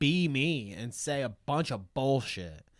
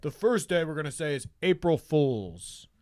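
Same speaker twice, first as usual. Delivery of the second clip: mock Elon. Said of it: "in his dumb Elon way".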